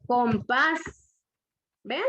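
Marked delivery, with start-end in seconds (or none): 0.1-0.8 "Compás" with weight on "pás"; stress on last syllable. Shown as a demonstration. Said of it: "fuerza de voz en la última sílaba".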